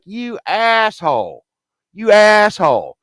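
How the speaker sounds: high, drawn-out insult; indignant outrage. Retold or imitated. Patient answering Death's threat, indignant and high-pitched. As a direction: throw it back in acted outrage.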